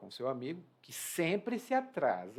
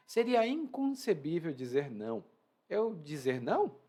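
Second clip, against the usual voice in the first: indignant disbelief; 3 semitones higher, 3 dB louder, slower than usual. Acted. Reading character, indignant tone.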